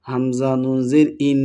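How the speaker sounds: held nasal n at the end of ইন; ghunnah. Shown as a demonstration. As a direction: spell it out, then hum the ন of ইন through the nose. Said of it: "গুন্নার সাথে পড়তে হবে". (ইন-এর নুনে গুন্নাহ করে পড়া)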